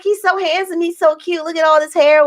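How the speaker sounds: put-on high-pitched cooing over a baby; retold gushing. People admiring the new baby, imitated gushing.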